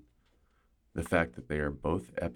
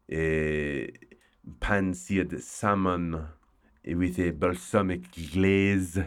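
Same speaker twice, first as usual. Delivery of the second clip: put-on slow, lightly French-accented menu words; a hint of a French accent on the menu; much slower than usual. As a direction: savour the dish names like a French chef. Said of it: "I don't know why I'm speaking French".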